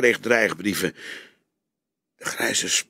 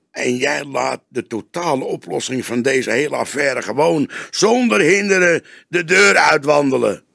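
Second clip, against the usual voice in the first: rising to a much louder accusation; young detective rebuking his boss, serious reproach; 6 semitones higher, 7 dB louder than usual. A narrator's reading. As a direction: reproach him in earnest. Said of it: "Het klonk als een ernstig verwijt".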